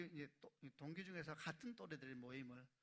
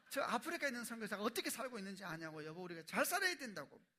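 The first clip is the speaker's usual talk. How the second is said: mock lecturing husband, louder and higher; hammed-up preachy husband scolding wife; imitating his own nagging; 6 semitones higher, 9 dB louder than usual. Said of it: "저희 아내가 말해요".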